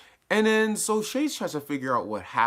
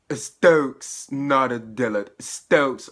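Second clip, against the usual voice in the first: put-on a loud, half-hearted Jamaican-accented Bushmaster; mock Jamaican accent; 6 dB louder, much slower than usual. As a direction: try a rough Jamaican accent, louder. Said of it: "maybe not in that accent".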